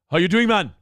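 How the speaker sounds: loud, hearty imitated greeting; jovial boss. Greek owner greeting a male server on Saturday morning, jovial. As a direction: greet a worker with mock jovial cheer. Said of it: "it'd be jovial".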